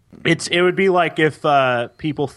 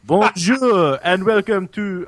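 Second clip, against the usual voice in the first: put-on higher, slow, sing-song botched French accent; French accent gone Italian; 5 semitones higher than usual. Host botches the show opening, Italian-sounding French accent. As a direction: attempt French, land nearer Italian.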